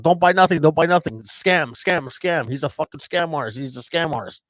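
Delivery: angry owner yelling. Retold or imitated. Gas station owner yelling at the buyer, mock angry shout. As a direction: shout warnings at customers. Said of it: "the fucking owner comes out".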